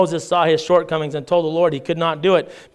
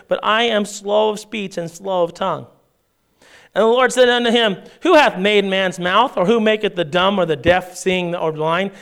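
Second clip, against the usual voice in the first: measured, raised reading of the passage; scripture reading; 3 semitones higher than usual. Acted. Pastor reads Exodus aloud to the church, measured reading voice. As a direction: read the King James text to the congregation.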